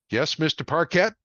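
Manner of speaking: a cop waiting on the line; sergeant on phone. A narrator's reading.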